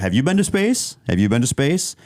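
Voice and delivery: mock a smug challenger; Gayle King. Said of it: "the pretentious Gayle King who challenged everyone".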